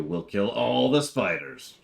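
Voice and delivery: high, slow, loud villain proclamation; evil villain voice. Acted. Dad hamming up spider destruction.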